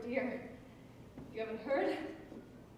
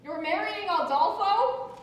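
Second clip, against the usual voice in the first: shocked; 4 semitones higher, 7 dB louder than usual. Acted. Shocked bride hears the news.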